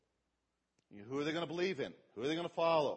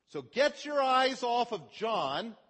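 much higher and louder, slow and forceful; urgent preaching; 8 semitones higher, 8 dB louder, slower than usual. Real, not acted. Preacher urging listeners off John, loud and slow. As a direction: drive it home, slowly, at full force.

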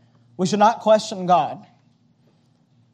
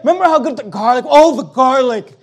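longing grumblers; 4 semitones higher, 3 dB louder than usual. Retold or imitated. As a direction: savor the memory in mock nostalgia. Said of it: "And they're like".

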